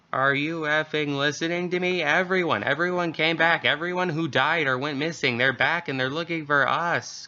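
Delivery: terrified mother begging to be heard; panicked caller. Acted. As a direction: caller losing control in fear.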